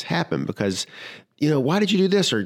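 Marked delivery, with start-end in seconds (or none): 1.6-2.3 high, accusing quote of a spouse; mock angry question. Spouse in the car scolding the driver, mock angry. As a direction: snap it like a nagging passenger.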